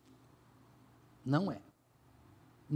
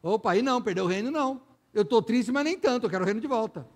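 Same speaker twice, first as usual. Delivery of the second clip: David giving in; 2 semitones higher, 3 dB louder, faster than usual. Retold or imitated. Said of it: "Ele fala".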